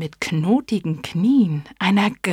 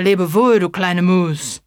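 loud, hasty owl's goodbye; hasty owl call; 6 dB louder than usual. Acted. Owl calls to the mouse and hurries off. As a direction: fling the farewell and flee. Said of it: "rief sie voller Hast".

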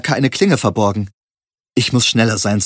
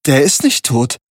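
mechanically; 3 semitones higher than usual. A narrator's reading. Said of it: "sagte ich mechanisch".

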